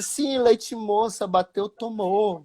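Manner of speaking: slow, singled-out mock heckle; drawn-out taunt. Drunk fan taunts the goalkeeper, slow and teasing. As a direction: imitate a heckler stretching every word.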